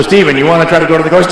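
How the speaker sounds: imitating a singer. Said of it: "he even talks like that now".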